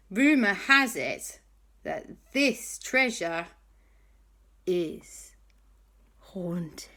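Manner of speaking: slow, fading to a whisper on haunted; spooky hush. Acted. Hattie telling the boys the treasure is haunted, hushed. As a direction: creep it down to a whisper.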